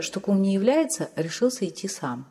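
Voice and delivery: plain reading voice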